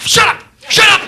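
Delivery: very high, loud snapping back; irritated shout. Retold or imitated. Singer answering hecklers, loud retort. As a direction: shout them down.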